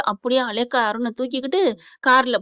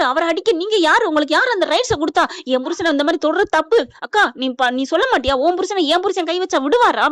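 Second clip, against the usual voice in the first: breathless tirade; 4 semitones higher than usual. Retold or imitated. Wife scolds her brother-in-law for hitting her husband, breathless tirade. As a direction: pour it out without a pause, raised pitch. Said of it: "மூச்சு விடாம சீதா பேசுறாங்க".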